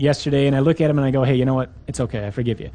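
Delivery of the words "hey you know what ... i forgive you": low, soft, offhand reassurance; casual forgiveness. Acted. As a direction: shrug off a small quarrel, low and quick. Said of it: "a little bit of an argument".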